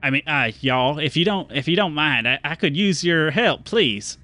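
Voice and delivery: a polite threat while holding him; menacing stranger. Acted. Stranger holding Lumpen intimidatingly.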